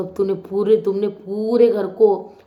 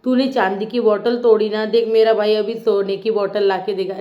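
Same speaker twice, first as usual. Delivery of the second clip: quoting Tania; 3 dB louder than usual. Retold or imitated. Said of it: "Tania अमाल को".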